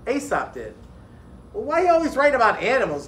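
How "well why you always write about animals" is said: higher and louder, insistent question; a child demanding an answer. A narrator's reading. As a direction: press the question hard. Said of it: "demanded Kiari".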